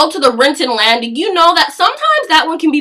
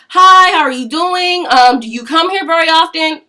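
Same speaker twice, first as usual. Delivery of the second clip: mock eager guy; 4 semitones higher than usual. Guy hitting on her at gym.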